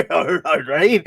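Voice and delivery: acted private chuckle into the words; laughing to himself. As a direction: chuckle to yourself as you speak. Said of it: "he just kinda laughs to himself".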